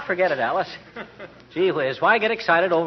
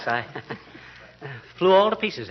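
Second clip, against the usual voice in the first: ordinary talk, nothing marked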